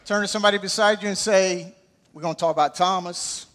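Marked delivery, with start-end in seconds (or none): 2.1-3.5 Southern shortcut. Shown as a demonstration. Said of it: "We Southerners like the shortcut".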